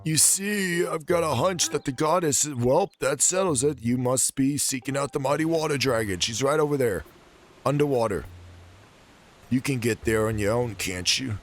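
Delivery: character voice. Acted. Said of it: "I cannot do his voice".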